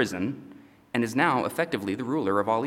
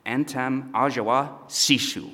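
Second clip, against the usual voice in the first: mock Egyptian speech; 2 semitones higher, slower than usual. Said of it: "you would have heard something like this".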